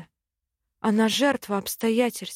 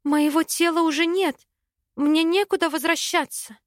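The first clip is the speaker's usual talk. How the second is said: higher, desperate exclamation; raised voice, desperate; desperate cry; 7 semitones higher than usual. A narrator's reading. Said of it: "отчаянно воскликнула я".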